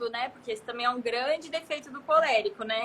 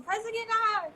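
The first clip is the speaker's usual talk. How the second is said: higher, barked-out order, lightly hammed; bossy general; 9 semitones higher than usual. Wife imitating a general ordering her husband, mock bossy. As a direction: play a general commanding her husband, half-joking. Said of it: "eu não sou um general que vou mandar meu marido".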